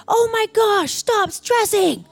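high, stretched-out mock pleading; exasperated husband. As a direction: imitate a fed-up husband, dragging the words. Husband's exasperated outburst, acted.

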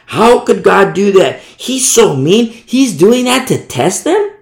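slow, emphatic mock disbelief; mock indignant objection. Objector questions how God could test people, mock indignation. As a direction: imitate a scandalized objector.

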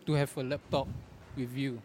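panting between words; out of breath. Real, not acted. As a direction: speak while catching your breath. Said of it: "I'm panting already".

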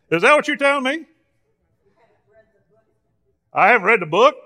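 mock-baffled, voice lifting on the questions; sarcastic. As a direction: play dumb with the congregation. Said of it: "I'm being sarcastic".

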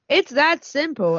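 high, drawn-out advert exclamation; slow, emphatic sales flourish. Acted. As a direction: land it with an audible exclamation mark. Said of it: "Exclamation mark".

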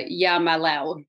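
"Yeah, Malao" said as words reversed; backwards speech. Shown as a demonstration. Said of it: "Tell me, talk backwards. Do it right now".

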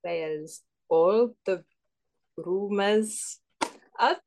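put-on halting, botched Welsh accent; attempted Welsh accent. Contestant retrying after coaching, halting bad Welsh accent. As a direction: try Welsh, landing vaguely Indian. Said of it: "read it in a Welsh accent".

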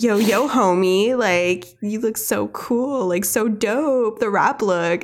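drawn-out, trying-too-hard cool talk; lightly hammed-up fake-cool hype; cringey sales guy. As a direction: imitate a cringey salesman doing slang, slowly. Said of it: "he says something so cringy".

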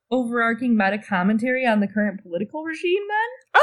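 sarcastic. Acted. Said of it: "are you being sarcastic".

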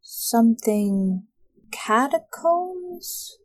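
hesitant, drawn-out recollection, trailing into uncertainty; clouded-over character. Acted. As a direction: search a hazy memory, slowly. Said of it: "like, a clouding over in his eyes".

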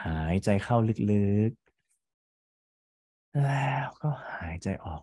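whispered breathing cue. Shown as a demonstration.

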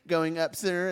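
slow, droopy cartoon dog voice; lightly voiced sleepy Droopy drawl. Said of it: "I love that voice. I love Droopy".

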